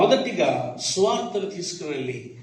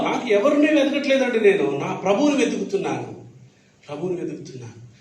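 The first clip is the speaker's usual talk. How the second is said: pleading Mary; 2 semitones higher than usual. Retold or imitated.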